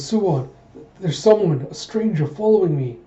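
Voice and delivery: mild panic in a retold line; frightened report. Frightened, reports being followed.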